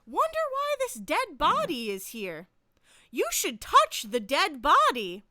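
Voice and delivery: mildly imitating a bright, chipper game narrator; cheery tone. Game voice urging the player to touch the body, mock cheery. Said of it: "in, like, a very cheery tone".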